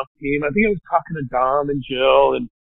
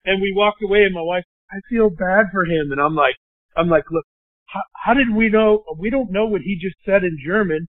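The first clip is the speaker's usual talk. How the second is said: rising, more and more worked up; pressing the point higher and higher; retold heated objection; 5 semitones higher than usual. Telling his wife why he won't toast, getting worked up. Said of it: "And I was like".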